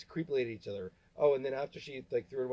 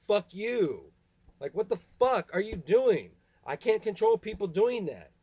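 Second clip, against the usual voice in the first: slow, much louder, higher enraged shouting; furious yelling; 6 semitones higher, 8 dB louder than usual. Real, not acted. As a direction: scream it at them in real fury. Screaming at family.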